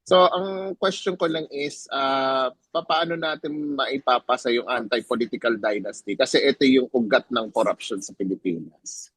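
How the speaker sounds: mixing Tagalog and English; Taglish. Real, not acted. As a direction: Filipino speaker switching into Tagalog. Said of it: "I'm gonna do in Taglish".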